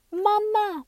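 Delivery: high, mechanical doll cry; talking doll voice. A narrator's reading. Narrator showing what the doll's mechanism said, high doll voice. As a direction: sound like a doll's built-in voice box. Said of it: "had the little mechanism which".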